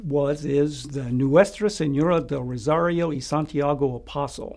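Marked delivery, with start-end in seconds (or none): 1.1-4.6 Spanish name in an American accent; American English speaker reading Spanish. Real, not acted. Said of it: "forgive my Spanish pronunciation".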